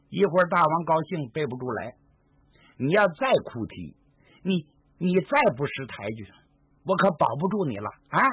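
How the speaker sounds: a lightly voiced old crone nagging the captive girl; nagging old woman. Old woman nags the crying captive girl, scolding and cajoling. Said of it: "这婆子唠唠叨叨正劝呢".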